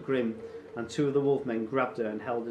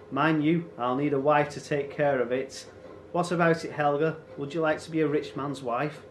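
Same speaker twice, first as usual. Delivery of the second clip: raised, loud and leisurely taunting; gloating raider chief; 3 semitones higher, 3 dB louder than usual. Acted. Raider claims the farm and widow, gloating. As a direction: play the conqueror toying with his captives.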